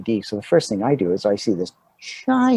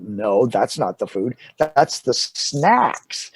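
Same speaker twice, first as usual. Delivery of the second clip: slow, stretched-out explaining; patient correction; much slower than usual. Retold or imitated. Crew explains the food table to new actor, patient correction. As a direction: spell it out slowly, drawing out the last words.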